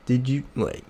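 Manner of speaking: slow, drawn-out "what" of disbelief; mock stunned disbelief, haltingly; retold shock. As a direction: act out being stunned, stretching the words. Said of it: "stared at her in shock".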